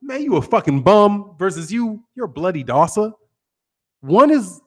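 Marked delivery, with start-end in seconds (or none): 0.0-1.4 casual American trash talk; everyday American street delivery; American street insult. Shown as a demonstration. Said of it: "you get how". 2.1-3.1 mock British put-down; prim mock-British delivery; hoity-toity British. Shown as a demonstration. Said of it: "super hoity-toity for us".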